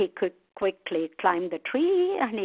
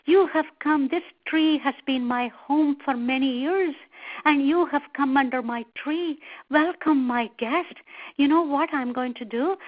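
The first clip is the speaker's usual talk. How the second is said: higher-pitched monkey host greeting a guest; welcoming monkey; 4 semitones higher than usual. Acted. Monkey greets the crocodile under his tree, welcoming. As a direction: play a hospitable monkey, a little higher.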